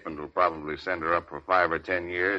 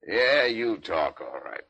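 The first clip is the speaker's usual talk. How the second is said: slow menacing threat; 3 semitones higher, slower than usual. Acted. Cop threatens slowly.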